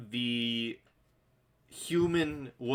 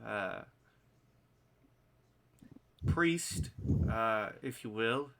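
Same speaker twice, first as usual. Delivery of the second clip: nervous. Acted. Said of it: "kinda, kinda nervously".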